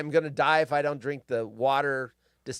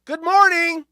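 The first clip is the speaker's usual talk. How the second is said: high, loud sing-song good morning; mock cheery greeting; 14 semitones higher, 10 dB louder than usual. Mocking cheerful posters, high sing-song greeting. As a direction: chirp it like a fake-friendly post. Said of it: "the people that post the good morning".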